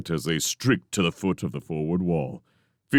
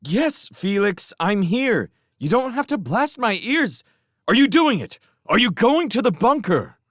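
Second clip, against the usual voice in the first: high, loud and annoyed; irked; 5 dB louder than usual. Acted. Showen, irked, complains he's blasting her ears. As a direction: tell him off for yelling.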